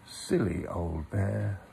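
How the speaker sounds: fondly to himself; loving. Acted. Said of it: "looked after him lovingly".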